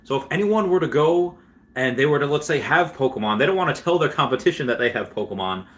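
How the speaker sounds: a hint of a Canadian accent, quoting an interviewer; mock Canadian accent. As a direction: lightly play the Canadian interviewer teasing Reese. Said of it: "I'm gonna try to put on a Canadian accent here".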